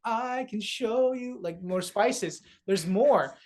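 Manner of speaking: slow, sing-song offer of wonders; a hint of Aladdin showing treasures; lightly voiced Aladdin, slowed down. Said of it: "I feel like Aladdin".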